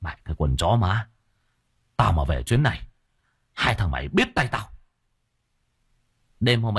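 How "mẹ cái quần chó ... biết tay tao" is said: grind out the threat, barely holding back rage; angry brother swearing revenge through gritted teeth. Acted. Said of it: "nghiến răng nghiến lợi".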